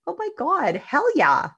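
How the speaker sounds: high, excited oh my God, hell yeah; emphatic yes. Retold or imitated. To people doubting she talks to her space, an excited high yes. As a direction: throw it out big and delighted.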